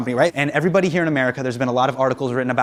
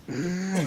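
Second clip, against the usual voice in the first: soft, strained little hum; effortful "mm"; 2 semitones higher, 10 dB quieter than usual. Retold or imitated. Imitating wife working on his eyebrows, soft focused hum. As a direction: imitate a quiet hum of concentration. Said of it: "She's like".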